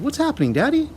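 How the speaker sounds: put-on high, pleading child's voice; child begging her father to explain; anxious cry. A narrator's reading. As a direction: ask Daddy in alarm. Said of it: "she cried".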